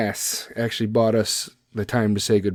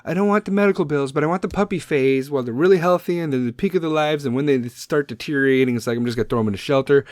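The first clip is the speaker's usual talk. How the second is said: higher, mocking voice that speeds up into a rush; mocking careless owners; 5 semitones higher, faster than usual. Mocking careless dog owners who want only the puppy phase. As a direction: sneer at the puppy-phase people. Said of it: "they're like".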